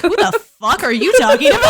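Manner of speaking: laughing mock disbelief. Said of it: "Daphne's like".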